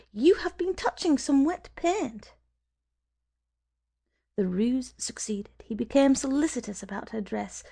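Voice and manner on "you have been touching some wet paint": sudden high, louder exclamation; exclaiming. A narrator's reading. Woman points out wet paint on his jacket, exclaiming high and loud. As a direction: blurt it out as if startled. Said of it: "she exclaimed".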